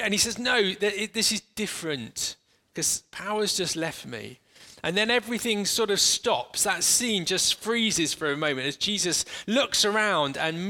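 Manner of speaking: calm, unhurried scene-painting for closed eyes; walk them gently into the story; guided meditation. Acted. Leads an imaginative guided meditation.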